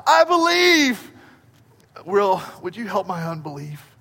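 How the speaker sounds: high, loud, slow desperate cry; a loud, high, drawn-out plea. Acted. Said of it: "the man cries out".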